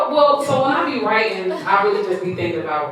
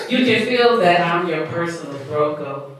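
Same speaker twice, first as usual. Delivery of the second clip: a touch slower, evenly spaced; slightly slow; 3 semitones lower, slower than usual. Shown as a demonstration. Poet repeating a line on host's request, slightly slow. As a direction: recite the line a little more slowly. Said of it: "but say it slow this time".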